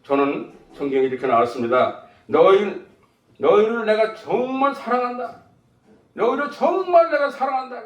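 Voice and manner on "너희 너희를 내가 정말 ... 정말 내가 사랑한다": high, drawn-out, earnest declaration; declaring love. Acted. Preacher voices Jesus to his disciples, earnest declaration of love. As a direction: stretch the words out with heartfelt emphasis. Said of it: "이렇게 말씀".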